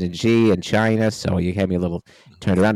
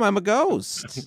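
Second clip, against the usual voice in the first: spooky ghost voice; 14 semitones higher, much slower than usual. Acted. Squeaky ghostly tag line.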